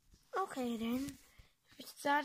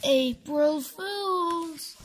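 drawn-out taunt; much slower than usual. Acted. Prank reveal, drawn out.

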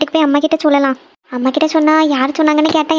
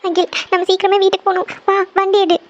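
upset and tearful; 3 semitones higher than usual. Acted. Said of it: "எதுக்கு அழுதுட்டு இருக்கீங்க?".

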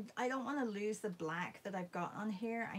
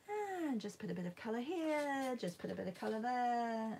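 higher, lilting, as if it were effortless; breezy, carefree; 4 semitones higher than usual. Acted. Painter mimicking the easy process she had expected, breezy and carefree.

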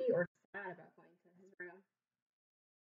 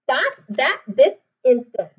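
louder, slower scold; stern mom; 7 dB louder than usual. Acted. Mom scolding David in the story. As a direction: cut him off sharply.

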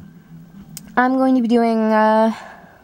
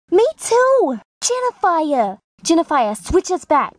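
higher urgent calling; 4 semitones higher than usual. Acted. Character calls out, demands.

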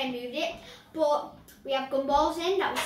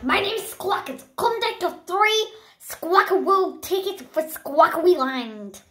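duck voice; 4 semitones higher, 5 dB louder than usual. Acted. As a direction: squawk it out like a duck. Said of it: "I can do the proper duck voice".

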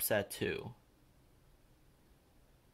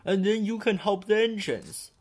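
louder, higher call across the wreck; 8 semitones higher, 6 dB louder than usual. A narrator's reading. Sir Topham Hatt calls up to Cranky, loudly. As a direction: call out to reassure. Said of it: "he called to Cranky".

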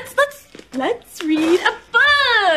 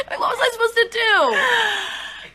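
laughing; 3 semitones higher than usual. Real, not acted. Laughing off failed role-play.

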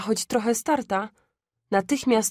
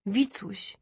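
softer, faltering call of a name; exhausted mother calls her son, faint and faltering; broken voice; 6 dB quieter than usual. A narrator's reading. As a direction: call your son weakly, voice breaking off. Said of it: "odezwała się matka przerywanym głosem".

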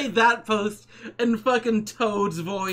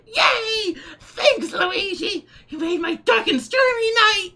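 Toad voice. Acted. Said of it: "I'm glad you all enjoy my Toad voice".

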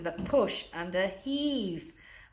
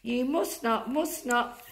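exasperated elf; 4 semitones higher than usual. Acted. Elf listing every tummy noise at Santa, exasperated. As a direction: rattle off the noises, fed up. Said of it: "says the elf".

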